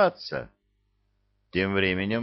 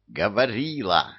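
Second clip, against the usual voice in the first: barked correction. Acted. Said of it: "рявкнул режиссёр".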